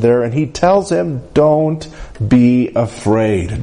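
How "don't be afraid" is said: very slow, soothing reassurance; Jesus reassuring Jairus, slow and tender; gentle reassurance. Acted. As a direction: draw it out gently to calm a frightened father. Preacher voicing Jesus's comfort.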